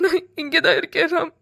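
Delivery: crying, held-in call to a loved one; tearful reassurance. Acted. Seetha saying she is right here for Ram, tearful reassurance. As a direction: answer him through tears.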